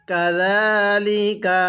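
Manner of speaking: slow, drawn-out Arabic recitation; ধীরে তিলাওয়াত; slow Quran recitation. Shown as a demonstration. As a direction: recite each syllable slowly for the student. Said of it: "কিভাবে পড়ব?".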